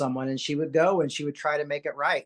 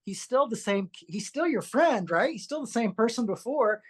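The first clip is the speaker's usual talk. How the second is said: reassuring mom; 4 semitones higher than usual. Retold or imitated. Mom reassures son, retold.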